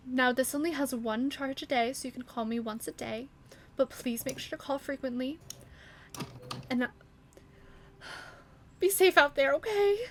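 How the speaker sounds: rushed motherly instructions; very quickly. Acted. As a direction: hurry through it. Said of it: "very quickly".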